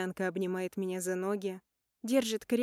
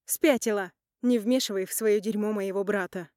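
hissing; 5 dB louder than usual. Acted. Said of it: "Шиплю на неё".

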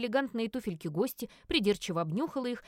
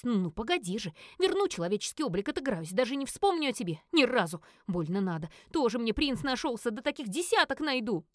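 angry. Acted. Fuming jealous witch.

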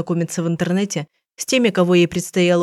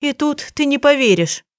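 sad; 8 semitones higher than usual. A narrator's reading. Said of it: "грустно проговорила Виктория".

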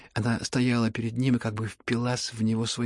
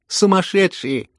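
slow, loud outraged exclamation, higher; indignant cry; 8 semitones higher, 9 dB louder, slower than usual. Acted. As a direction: spit the word out at them. Лизавета в гневе. (громко, с возмущением)

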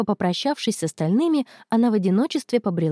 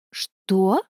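cry of surprise. A narrator's reading. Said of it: "вскрикнула Дина".

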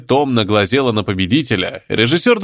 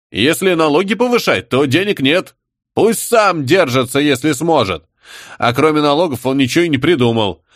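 lightly voiced, higher grumbling crowd; grumbling tribesmen; 5 semitones higher than usual. Tribesmen demanding answers from Shtanina, grumbling. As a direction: grumble about taxes like a savage.

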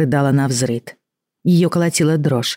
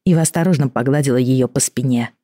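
plain reading voice

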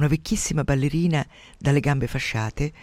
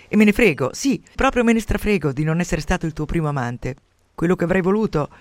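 louder, bitter and cutting; harsh; 3 semitones higher, 5 dB louder than usual. Acted. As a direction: spit it out resentfully. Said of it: "disse lui aspramente". (aspro e risentito, più forte)

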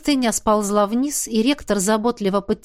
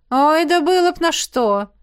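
choking indignation; 8 semitones higher, 6 dB louder than usual. Acted. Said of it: "задохнулась от возмущения Джемма".

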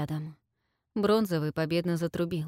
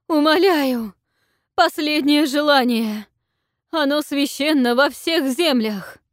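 much higher, loud desperate cry; strained cry; 8 semitones higher, 9 dB louder than usual. A narrator's reading. Queen submits to the dragon, strained cry. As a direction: cry out on the edge of breaking.

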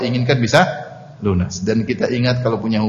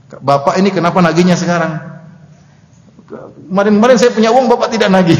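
higher-pitched, playfully aggrieved complaint; mock indignant debtor; 4 semitones higher than usual. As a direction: act out a debtor scolding the collector, half in jest. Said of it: "dia malah marah-marah". (pura-pura marah, protes dengan nada tinggi)

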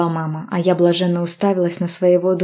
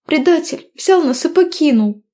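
sniffling; 10 semitones higher, 4 dB louder than usual. A narrator's reading. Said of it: "шмыгала я носом".

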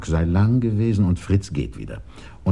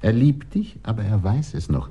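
whisper; 3 semitones higher than usual. Acted. Belema whispers the prince's name to Titania. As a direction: confide the secret. Secretive exchange.

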